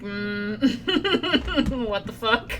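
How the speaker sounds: mm, what the fuck through a laugh; baffled laugh at the line; laughing disbelief. Pretend. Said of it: "look at you like".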